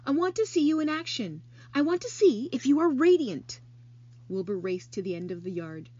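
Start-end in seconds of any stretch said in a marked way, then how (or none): 0.0-3.6 commanding. Acted. Charlotte commands Wilbur.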